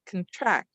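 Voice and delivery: "contract" going straight from k to n; k'n-TRACT, first syllable reduced; schwa nearly dropped. Shown as a demonstration. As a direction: barely voice the first vowel of "contract", land on TRACT. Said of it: "right from the k to the n".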